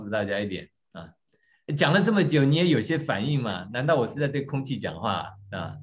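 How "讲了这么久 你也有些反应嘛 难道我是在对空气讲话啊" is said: higher, louder, exasperated spouse; mock exasperated complaint. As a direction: play the wife fed up with being ignored. Acting the ignored spouse complaining.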